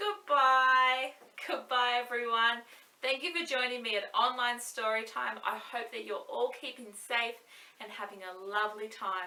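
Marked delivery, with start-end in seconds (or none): 0.0-1.1 really nice, sweet, warm tone. An online storyteller says goodbye to everyone, saying it really nicely. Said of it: "Let's say goodbye as nice as we can".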